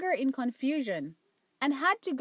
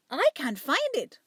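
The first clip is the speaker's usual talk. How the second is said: a touch of worry, a bit louder; mild anxiousness; 3 semitones higher, 4 dB louder than usual. Acted. Duchess searching her plate, lightly anxious. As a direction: fret lightly over the lost pan. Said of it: "she said anxiously".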